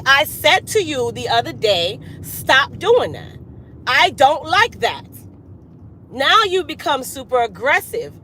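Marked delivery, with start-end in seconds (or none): 0.0-5.1 slow, deliberate, spelled-out warning; firm warning. Retold or imitated. To someone who kept doing it, a slow firm warning. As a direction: lay down the law word by word. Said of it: "now you have to turn it on".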